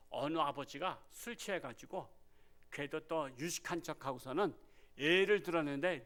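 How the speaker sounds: normal talking voice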